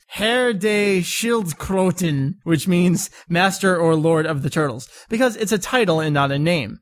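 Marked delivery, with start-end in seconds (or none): 0.1-2.3 Herr de Schildkröten sounded out slowly, syllable by syllable; careful German attempt. Shown as a demonstration. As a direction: feel your way through Herr de Schildkröten. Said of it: "not being able to properly pronounce this".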